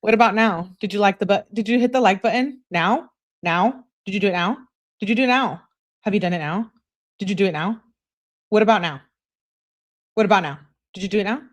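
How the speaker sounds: mock nagging, short repeated questions; annoying pestering. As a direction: keep pestering like an impatient texter. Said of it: "Oh my God, that's annoying".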